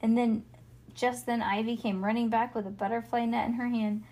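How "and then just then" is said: usual speaking voice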